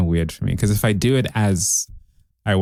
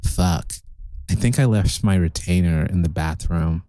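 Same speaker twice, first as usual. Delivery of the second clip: current American accent; 6 semitones lower, 3 dB quieter than usual. Shown as a demonstration. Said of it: "now it's more like".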